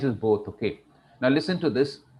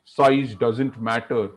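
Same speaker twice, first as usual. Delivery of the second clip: baritone lion. Acted. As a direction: speak with a lion's measured weight. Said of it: "I was going in a ... Baritone voice".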